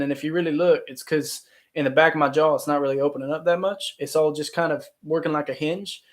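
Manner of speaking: light Southern American accent, jaw barely opening; hint of a Texas dialect, mouth kept small. Shown as a demonstration. Showing livestream viewers a Southern accent, lightly done Texas dialect. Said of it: "more of a Texas style dialect".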